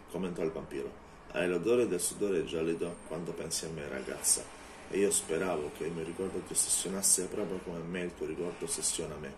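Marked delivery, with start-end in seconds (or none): 1.3-9.3 a lightly voiced menacing vampire. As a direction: lower your voice into a cold, taunting threat. Vampire speaks to Anita.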